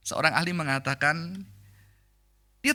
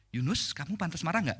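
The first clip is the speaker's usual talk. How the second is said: gentle question; 3 semitones lower, 7 dB quieter than usual. Acted. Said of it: "Bayangin itu murid saya".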